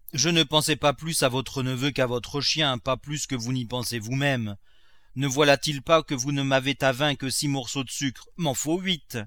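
a hint of a stubborn cook; lightly voiced servant Nanon. Servant arguing with master over sugar rations, mild protest.

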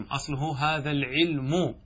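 العلم said slowly as العلُم, lam taking the damma; slow demo of العلم with the damma shifted back; damma moved onto the lam. Shown as a demonstration. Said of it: "أنقل الضمة التي على الميم". (العلم بنقل الضمة إلى اللام)

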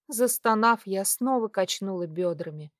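plain reading voice

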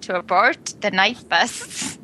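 American accent, a bit Scottish; careful American accent try; attempted American accent. Shown as a demonstration. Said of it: "It sounded Scottish to me".

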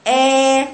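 "آ" held level with lips spread sideways; long steady "آ" through horizontally stretched lips; wide-lipped hamza. Shown as a demonstration. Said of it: "شفايفك جاية بالعرض كده".

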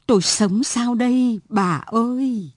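a touch of a broken man's grief; mournful, understated cry; plaintive lament. Acted. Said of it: "ai oán".

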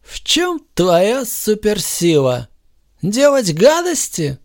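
slow, high, sneering question; lightly voiced smug superhero taunt; a hint of mockery; mocking Superman. A narrator's reading. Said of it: "начал Супермен уверенно".

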